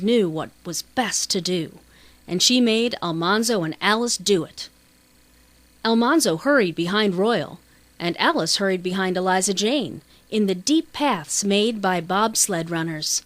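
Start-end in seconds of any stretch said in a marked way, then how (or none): none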